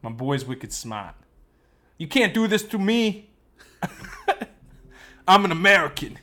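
Casey Affleck Boston impression; broad Boston vowels, dropped r's; Boston accent. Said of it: "with Boston accents".

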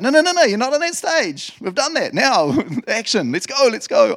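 high, loud, insistent correction; impatient God. Acted. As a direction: cut in and push them into action. God cutting in on Moses, acted.

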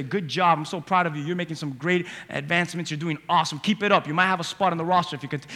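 a hint of a coach building a player up; encouraging coach. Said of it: "sometimes you see them say".

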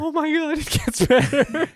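high, delighted, half laughing; gleeful disbelief, drawn out; gleefully reading gossip. Real, not acted. Delighted by Christian Bale news.

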